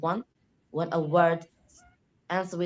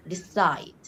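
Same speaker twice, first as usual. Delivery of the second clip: decide slowly, as de-CIDE; stress on second syllable; 4 dB louder than usual. Shown as a demonstration. Student showing verb stress, decide stressed on the end. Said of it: "the second one is usually the".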